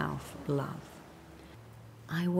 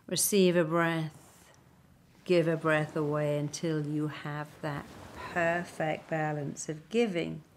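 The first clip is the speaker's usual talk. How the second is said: ordinary talk, nothing marked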